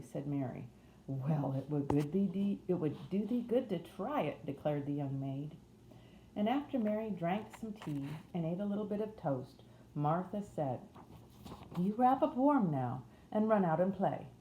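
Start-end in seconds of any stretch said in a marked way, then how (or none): 1.1-4.5 put-on broad Yorkshire accent. A narrator's reading. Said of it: "in a broad Yorkshire accent". 11.8-14.3 higher-voiced Yorkshire housemaid; broad Yorkshire accent. A narrator's reading. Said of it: "in a broad Yorkshire accent".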